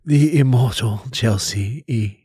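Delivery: classical stage acting. Shown as a demonstration. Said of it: "a Shakespearean thing of awesomeness".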